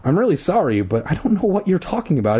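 acted regret; sad apology. A narrator's reading. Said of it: "replied sadly".

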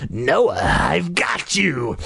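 slow evil monster voice; deep raspy evil. Acted. Masked sister pouncing on her brother, deep raspy evil. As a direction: draw it out, raspy and menacing. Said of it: "her voice deep, raspy, and evil".

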